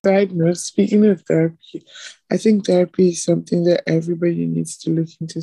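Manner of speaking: talking through a swollen lip; words thick from a puffy mouth. Real, not acted. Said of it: "My mouth is swollen".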